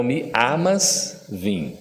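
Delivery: "amas" drawn out slowly, stress on "a-"; slow penultimate stress. Shown as a demonstration. Teacher showing the audience penultimate stress, very slowly. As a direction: stretch "mi amas" and lean on the first syllable of "amas". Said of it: "acento tônico sempre na penúltima".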